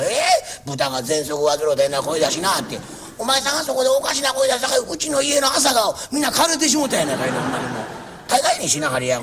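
a lightly voiced fussy old landlord making his rounds; nagging landlord. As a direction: scold each tenant kindly but nonstop. Landlord scolds, then comes home. (小言好きの家主が長屋を回って小言を言う口調)

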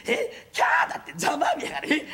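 slow, gleeful jeer with a mock scream; mock shriek then gloat. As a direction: relish the other's defeat.

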